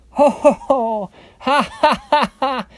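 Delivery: high, loud ho-ho and ha-ha; acted laughter. A narrator's reading. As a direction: laugh as two lazy little pigs. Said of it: "laughed the two lazy little pigs".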